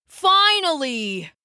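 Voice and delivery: high, slow triumphant cry; hammed-up joyful exclamation; excited. Dives fakes joy, leaps up.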